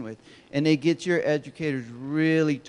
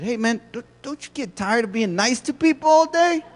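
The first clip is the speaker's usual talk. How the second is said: curious question; 7 semitones higher, 5 dB louder than usual. Retold or imitated. Speaker asks cashier a question.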